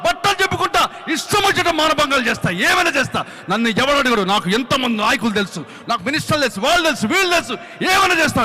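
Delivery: building from a plain confession to a loud, high wail; a broken man ranting his guilt, rising to a cry; drunk friend's tearful rant. Retold or imitated. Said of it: "అని ఏడుస్తా ఉన్నాడు".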